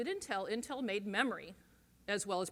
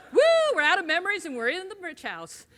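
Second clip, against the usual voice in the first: much higher, louder whooping boast; mock gloating cheer; 7 semitones higher, 10 dB louder than usual. Old rich executives celebrating their windfall, loud mock whoop. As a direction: cheer like a rich old guy laughing to the bank.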